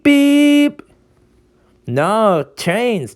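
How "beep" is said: high, loud beep; beep imitation. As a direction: imitate a machine beeping. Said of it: "and goes beep".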